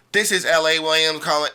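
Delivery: a dull, businesslike phone intro; cold caller voice; cold, flat intro. Shown as a demonstration. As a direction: read it off like a script, no warmth. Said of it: "it sounds so cold".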